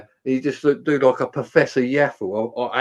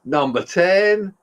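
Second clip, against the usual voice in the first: bingo caller; 5 semitones higher, much slower than usual. Retold or imitated. Imitating slow bingo caller.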